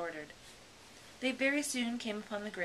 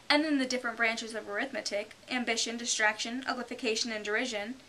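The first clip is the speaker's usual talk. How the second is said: higher, louder boasting; boastful Mock Turtle; 4 semitones higher, 5 dB louder than usual. The Mock Turtle boasting of his schooling, proud. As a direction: brag as an old turtle.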